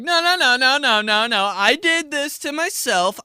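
very high, loud panicked nos; stubborn drinker mocked, high and frantic; high frantic protest. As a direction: refuse the help in a squeal. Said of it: "You're like".

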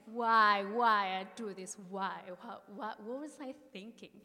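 loud, mild mock sob of regret; retold crying. Scolding herself while crying in the woods, loud mock wail. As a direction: cry out at yourself, half-acted. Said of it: "And then I start crying".

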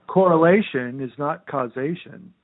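slow, mock-solemn sarcastic retort. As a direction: drag it out with deliberate sarcasm. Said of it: "No, I'm being sarcastic".

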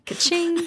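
breathy high cash register ka-ching; whispered ka-ching. Pretend. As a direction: whisper it like a till ringing. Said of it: "She just says ka-ching".

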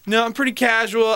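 hint of a self-describing dater; casual profile writer. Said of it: "phrase they use to describe themselves".

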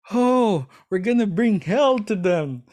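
high, loud retold war cry; playful, swooping outburst of bravado; mock threat. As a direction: imitate hot-headed disciples raring for a fight. Acts out hot-headed disciples in scene.

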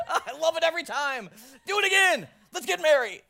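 high, loud cackling glee; laughing God. Pretend. God laughing at his cosmic joke, gleeful shriek. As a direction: giggle it out like a delighted prankster. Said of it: "God's up there going".

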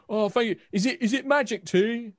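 put-on high, loud eager drunk soldier. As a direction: ask hopefully like a tipsy grunt. Drunk soldiers ask about tea.

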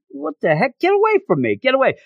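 a mock freak-out, voice jumping up high; panicked. Greycrow panics as Nanny approaches.

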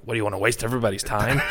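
fast, brushing-off retort; imitating Eastwood snapping back fast; rapid-fire Eastwood quote. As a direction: rattle it off quickly. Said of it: "He's like".

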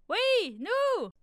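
high, loud chorus reply; mouse and hare answering. A narrator's reading. Mouse and hare answering the fox, high cheerful chorus. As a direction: answer together from inside. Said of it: "répondirent la souris et le lièvre".

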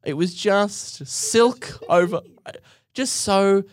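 slow, high, drawn-out silky voice; silky smooth. Shown as a demonstration. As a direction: pour it out like silk. Describing very smooth calm cashier.

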